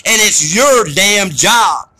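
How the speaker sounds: slow, hammering shout on every word; angry preacher shout; fierce shout. Real, not acted. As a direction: pound it out, furious. Ranting at listeners about responsibility.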